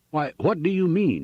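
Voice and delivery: high-pitched indignant outburst; bursting out. A narrator's reading. Ruined farmer to railroad clerk, bursting out. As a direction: burst out in protest. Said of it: "he burst out".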